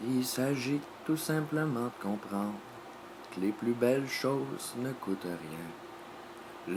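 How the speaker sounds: slow, soft, measured recitation; recited maxim. Acted. Opening a monologue on happiness, slow soft recitation. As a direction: recite it slowly, phrase by phrase, pausing after each.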